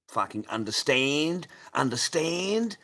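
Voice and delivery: drawn-out, rising, forceful question; slow, high, loud challenge; loud demand. Real, not acted. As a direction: demand it loudly, stretching the word up high. Laying down law to banned chatter.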